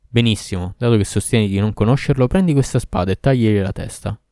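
a hint of a menacing demon; cold Ifrit command. Ifrit handing the sword to the girl, mild menace. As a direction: order it coldly.

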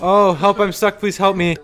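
claustrophobic panic. Acted. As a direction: cry for help as if trapped. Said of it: "That's a scenario?".

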